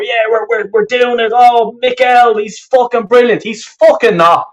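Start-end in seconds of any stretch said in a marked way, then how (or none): 0.0-3.4 higher-pitched mock praise; mocking imitation. Fan mimicking the manager's defenders, mocking. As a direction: parrot the deluded optimists, lightly scornful.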